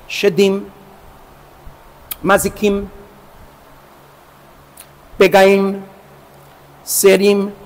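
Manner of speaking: Hebrew names with final-syllable stress, Shedim, Pegaim, Serim; hebrew names stressed on last syllable. Shown as a demonstration. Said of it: "Por isso sempre eu pronuncio". (nomes hebraicos com tônica na última sílaba)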